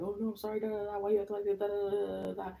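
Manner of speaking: high, whiny mock sobbing plea; imitating crying. Mocking the boyfriend who called back crying, high whiny sob. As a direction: whimper it like a begging ex. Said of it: "called back crying".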